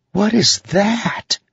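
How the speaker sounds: high, slow and wondering; tiny sprite voice, puzzled; curious high voice. A narrator's reading. Syl's voice in narration.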